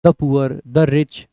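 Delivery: slow, deliberate example read; teacher reading an example slowly; slow teaching read. Shown as a demonstration. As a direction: spell out each phrase slowly for the class. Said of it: "the poor को noun के तरीके से treat करते हैं हम".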